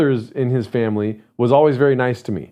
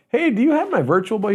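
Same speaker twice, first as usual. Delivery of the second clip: higher, mild-mannered mock asking; polite, casual request; 8 semitones higher than usual. Shown as a demonstration. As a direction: ask nicely, in a light raised voice. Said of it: "He wasn't like".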